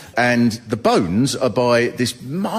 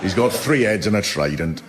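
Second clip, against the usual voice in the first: deadpan calm; 5 semitones lower than usual. Retold or imitated. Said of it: "I can imagine 'em going".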